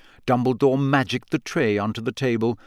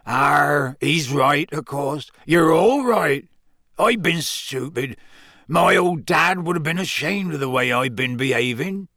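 tearful giant; 3 semitones higher than usual. A narrator's reading. Hagrid tearful.

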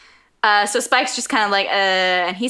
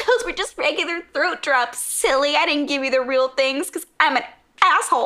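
gloating; 5 semitones higher than usual. Acted. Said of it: "this guy laughing at him".

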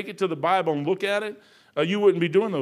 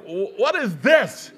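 drawn-out, slow stunned question; mock-stunned question at a near-empty bowl; mock disbelief; 3 semitones higher, 5 dB louder, much slower than usual. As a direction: stare at the bowl and ask it slowly. Retold shock at tiny breakfast.

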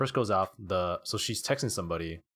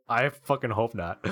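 laughing; 3 semitones higher than usual. Real, not acted. Laughing while reading texts.

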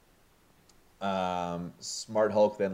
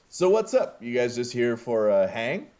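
put-on breezy drunk Thor; 3 semitones higher, 4 dB louder than usual. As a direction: toss it off like nothing's wrong. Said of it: "Thor voiced casually".

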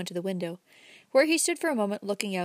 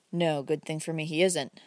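bitterly; 4 semitones lower than usual. Acted. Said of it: "the young man answered bitterly".

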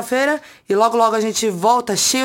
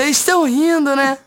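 Dani Calabresa impression; 5 semitones higher, 3 dB louder than usual. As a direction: mimic a comedian doing a mimic. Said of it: "fez a imitação da Dani Calabresa".

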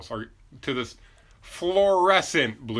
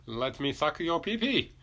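higher, slow mock Asian accent; a hint of a hammy Asian accent; 5 semitones higher, 4 dB quieter than usual. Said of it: "why I gave him an Asian accent".

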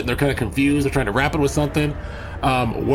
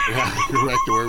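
laughing; faster than usual. Real, not acted. Laughing at his own slip.

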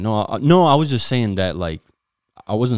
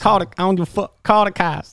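higher, fast playful shouting; mock yell; 13 semitones higher, 4 dB louder than usual. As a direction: holler it at the crowd. Mocking the brawl, yelling.

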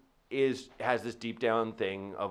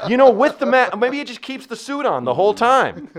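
laughing; 13 semitones higher, 13 dB louder than usual. Real, not acted. Laughing loud joke riff.

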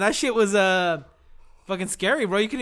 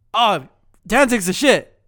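a louder, slowed put-on dude voice; imitating the guy who bumped him, louder and slow; mock stranger; 4 semitones higher, 10 dB louder, slower than usual. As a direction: ham up the other driver's clumsy compliment. Retold stranger's comment at the car.

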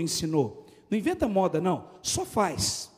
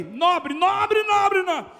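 mock boast; 7 semitones higher, 5 dB louder, much slower than usual. Mock boast of noble neighborhood.

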